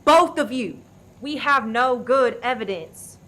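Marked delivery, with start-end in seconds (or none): 0.0-0.8 loud, slow furious yell; angry shout. Acted. Leader shouting at the two quarrelling suspects, furious yell. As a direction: shout them both down. Breaking up armed standoff.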